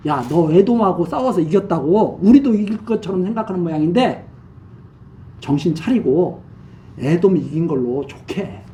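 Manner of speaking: mock him lightly, sneering at his victory; sneering reply. King of Israel scoffs at Amaziah, a mild sneering warning. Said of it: "비아냥거리는, 어, 답변을 보낸 겁니다".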